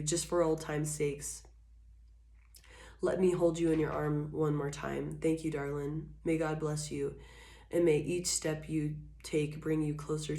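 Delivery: put-on a tender goodbye to an old love; tender farewell. An ex saying a soft farewell to their darling.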